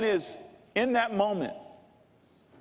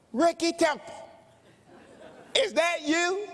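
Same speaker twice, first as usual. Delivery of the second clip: put-on high, excited old man's yell; yelled name; 10 semitones higher than usual. Old man spots the preacher in a barbecue place, yelling. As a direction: call out in astonished recognition, high and drawn. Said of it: "And he yells my name".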